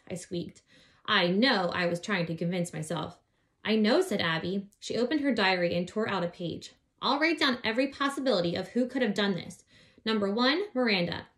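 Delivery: put-on lively read-aloud voice for children; story narration. A narrator's reading. Reading a children's book aloud.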